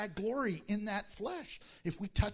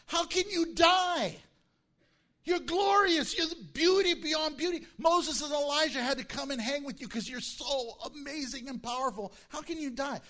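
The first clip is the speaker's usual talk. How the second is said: higher, louder cry of wonder; awed exclamation; 6 semitones higher, 4 dB louder than usual. Real, not acted. Preacher to congregation, awed and much louder. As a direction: proclaim his glory in disbelief. Preacher marvels at Christ's glory.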